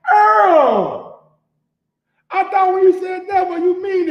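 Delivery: loud high cry of the name; calling out. Real, not acted. Calling out Earl for breaking his word, loud cry. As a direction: yell the name in mock dismay.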